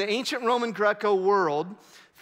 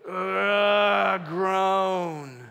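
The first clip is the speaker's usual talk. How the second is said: groaning. Shown as a demonstration. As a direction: let out a long groan. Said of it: "I just wanna hear the groan".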